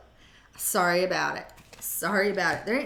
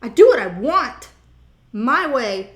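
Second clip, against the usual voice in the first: loud, raised rebel shout with a laugh; defiant primal self; 2 semitones higher, 11 dB louder than usual. Acted. Your wild side yelling back at society, loud and defiant. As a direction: bark it like you answer to no one. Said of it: "the primal part of you that's like".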